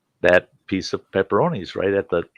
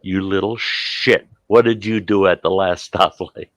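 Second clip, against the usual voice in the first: retold scolding. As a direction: stretch out the insult at your daughter. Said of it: "I go".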